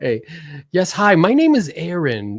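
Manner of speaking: put-on voice, very high, loud and drawn-out. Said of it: "it's the high one".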